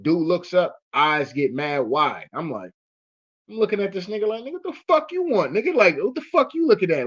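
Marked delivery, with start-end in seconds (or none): 4.4-7.1 high, loud confrontational yell; mock-angry shout at the principal; pissed-off kid barking at an adult; hostile teen snap. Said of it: "I was on that kind of time".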